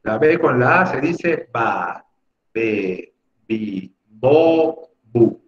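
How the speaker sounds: slow, sing-song syllable drill; lightly playing a primary teacher; mock first-grade teacher. Shown as a demonstration. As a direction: sound out ba be bi bo bu like for small kids. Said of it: "Hoy día vamos a aprender, chicos, la letra B".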